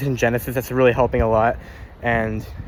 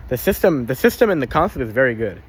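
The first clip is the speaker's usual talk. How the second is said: stuttering, repeating words; 4 semitones higher than usual. Real, not acted. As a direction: trip over the words. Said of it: "I'm stuttering a fuck ton".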